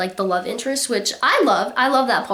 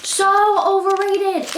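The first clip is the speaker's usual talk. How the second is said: drawn-out verdict; 8 semitones higher, slower than usual. Acted.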